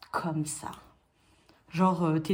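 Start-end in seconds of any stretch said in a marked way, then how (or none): 0.1-0.7 breathy whispered aside. Real, not acted. The speaker showing off her snood in a soft whisper. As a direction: drop to a whisper, lower.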